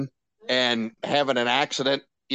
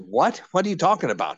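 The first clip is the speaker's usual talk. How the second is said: rising, puzzled what, then higher question; retold surprise; 4 semitones higher than usual. Storyteller replaying his reaction to the giant box, mildly incredulous. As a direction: replay mild disbelief.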